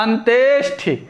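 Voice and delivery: अंत्येष्टि said syllable by syllable; correct pronunciation. Shown as a demonstration. Teacher answering which word is right, correct pronunciation. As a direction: stretch the middle of अंत्येष्टि before the ṣṭi. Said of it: "ये शुद्ध शब्द क्या होता है?".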